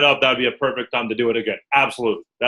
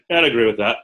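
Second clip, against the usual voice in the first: unimpressed; faster than usual. Shown as a demonstration. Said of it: "You see the nonverbals?".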